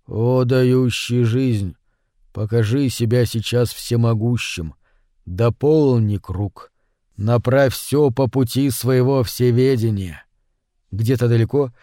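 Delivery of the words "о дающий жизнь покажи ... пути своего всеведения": silent prayer. A narrator's reading. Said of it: "беззвучно Кацук молил".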